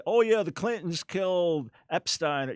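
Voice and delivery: offhand mock social-media gossip; careless gossip. Believer passing on a meme, mock careless. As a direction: toss it out like a careless rumor. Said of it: "where we carelessly will just pass on".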